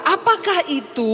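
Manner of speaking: slow, innocent "Apakah itu?" as if he knows nothing; feigned ignorance. Retold or imitated. Jesus asks the disciples, slowly pretending not to know. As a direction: ask "Apakah itu?" slowly, playing dumb on purpose. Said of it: "pura-pura nggak tahu".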